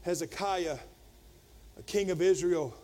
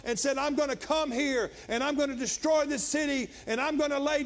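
raised, higher-pitched pulpit retelling; impassioned preaching; 6 semitones higher than usual. Acted. Preacher retells an invader's threat to Jerusalem, impassioned preaching. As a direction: preach the threat with rising force.

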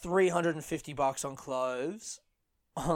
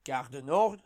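Gare du Nord rising like a question; Paris metro announcer; 2 semitones lower than usual. Acted. Comedian mimicking the first metro announcement, rising announcer. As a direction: announce Gare du Nord as the next stop, lifted ending. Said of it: "whenever they announce the".

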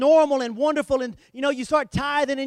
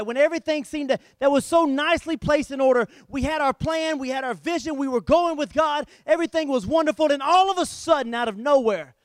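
louder, higher sermon build-up; impassioned preaching; 4 semitones higher, 3 dB louder than usual. Real, not acted. Preacher recalling when life turned upside down, impassioned preaching. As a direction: pile up the good times like an excited preacher.

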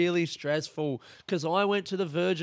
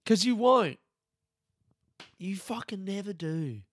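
bitter jab; 6 semitones higher than usual. Acted. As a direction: sneer it as a put-down. Mocking bitter retort.

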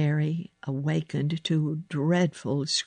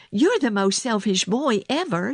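higher-pitched angry comeback; indignant retort; 7 semitones higher, 4 dB louder than usual. A narrator's reading. Girl answers sick boy's accusation, indignant retort. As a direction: fire the accusation straight back.

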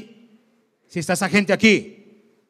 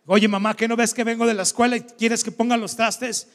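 mock indignant protest; 3 semitones higher than usual. Son protesting chores to mother, retold.

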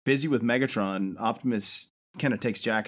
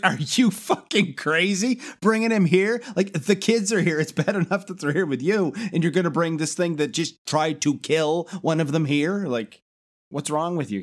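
outraged; 5 semitones higher than usual. Retold or imitated. June scolding Optimus over the kids, outraged. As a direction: rant at Optimus in disbelief, voice up.

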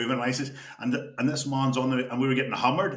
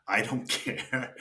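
slow resigned mumble; much slower than usual. Retold or imitated. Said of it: "I didn't say it in that".

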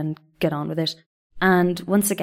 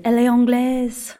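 put-on teen girl gossip; 6 semitones higher, 3 dB louder than usual. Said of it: "I heard them say".

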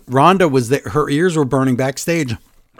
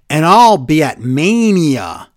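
mock jobber; 5 dB louder, slower than usual. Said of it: "jobbers would always say".

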